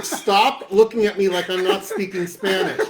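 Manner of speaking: mildly exasperated, slowing on the opening; inner protest. Retold or imitated. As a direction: plead your case, half laughing. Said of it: "in my head, I'm going".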